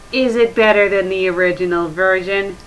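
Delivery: usual speaking voice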